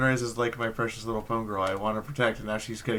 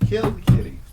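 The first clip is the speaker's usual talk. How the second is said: "kill the kitty" hissed voiceless but much louder and higher; hammed-up whispered scream of "kill the kitty"; mock stage-whisper yell; 12 semitones higher, 10 dB louder than usual. Chant peaks in a hiss-shout.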